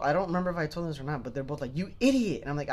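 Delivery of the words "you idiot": mock sleep yell. Sleeping twins yelling together.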